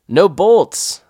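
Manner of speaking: loud high yell across the cliff. Retold or imitated. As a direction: shout it down to your partner. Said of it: "I yelled back to him".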